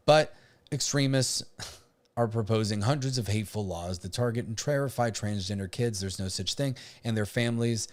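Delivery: deliberately monotone reading. Pretend. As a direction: read it out in a dull, even monotone. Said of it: "Yes, I'm reading this in a monotone, uh, voice on purpose".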